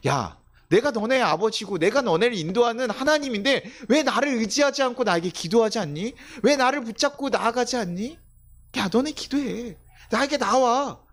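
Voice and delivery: God pleading with exasperation, pitched high; high, insistent fatherly reproach; frustrated, earnest appeal. Acted. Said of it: "이 답답한 마음이 무엇인지".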